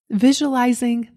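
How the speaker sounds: ordinary talk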